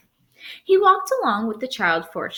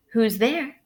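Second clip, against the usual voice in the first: frail grandmother voice; 2 semitones higher than usual. Acted. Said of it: "in a frail voice".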